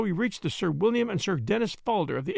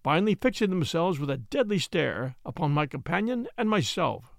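usual speaking voice

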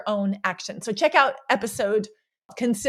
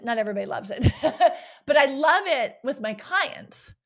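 laughing through the words; giggling about loving fight mode; 3 semitones higher than usual. Real, not acted. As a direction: chuckle as you say it. Laughs while declaring love.

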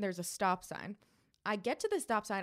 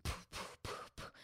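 soft voiceless puffs of air; whispery, percussive poofs; imitated tire noise; 14 dB quieter than usual. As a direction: puff out the sound of a flapping tire. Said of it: "And then I hear".

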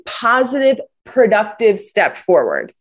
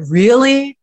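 a slightly raised, questioning "Really?"; mild disbelief; 4 semitones higher than usual. Retold or imitated. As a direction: ask "Really?" with a light lift of doubt. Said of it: "you say to your kids".

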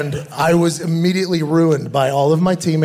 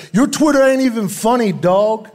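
1 mock trash talk; 5 semitones higher than usual. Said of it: "the worst I ever heard was somebody said".

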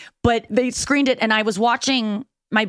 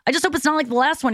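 sweet greeting; 7 semitones higher than usual. Retold or imitated. Her own voice in the sketch.

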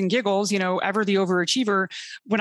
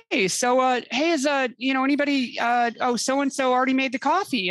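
higher, hesitant hinting voice; mock colonels hinting; 5 semitones higher than usual. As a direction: play the awkward colonel fishing for coffee. Imitating colonels asking about coffee.

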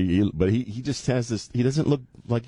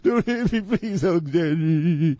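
timid pleading man; 6 semitones higher than usual. Acted. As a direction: beg her meekly. Acting the meek fiancé.

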